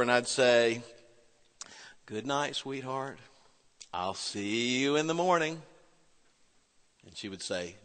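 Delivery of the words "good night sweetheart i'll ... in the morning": put-on soft, gentle goodnight to a child; softer, lull her to sleep; father saying goodnight softly; tender goodnight. Father tucking in daughter.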